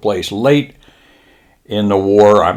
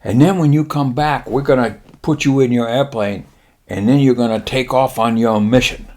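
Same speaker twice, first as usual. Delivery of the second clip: lightly voiced Japanese admiral, pitched up; 3 semitones higher than usual. Admiral promising pilots leave, light mock-Japanese voice. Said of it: "then he says".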